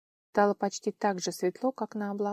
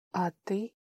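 tragic heroine sorrow; 4 dB quieter than usual. Acted. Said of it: "дрожащим голосом уточнила она".

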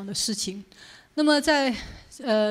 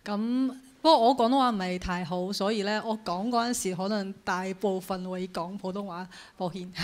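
Cantonese with a Mandarin accent; careful Cantonese from a Mandarin speaker. Real, not acted.

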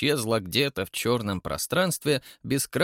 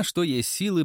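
usual speaking voice

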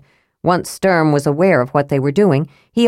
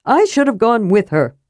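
remorseful kender; 5 semitones higher than usual. A narrator's reading. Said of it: "Tass offered remorsefully".

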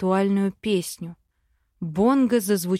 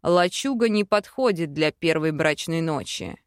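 much lower, hushed male voice; 6 semitones lower than usual. Acted. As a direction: drop the voice low and intimate. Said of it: "понизив голос".

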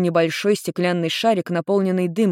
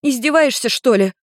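put-on higher indignant girl's retort; 7 semitones higher, 4 dB louder than usual. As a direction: bristle at the question. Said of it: "возмутилась девушка".

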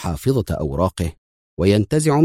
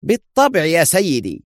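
eager; 10 semitones higher than usual. A narrator's reading. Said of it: "صاح ضابط الأمن في حماس".

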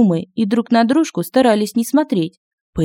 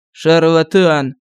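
slow scornful sneer; с пренебрежением; 2 semitones lower, 3 dB louder, much slower than usual. A narrator's reading. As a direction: spit it out with contempt. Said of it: "с пренебрежением сказал первый лекарь". (презрительно, медленно)

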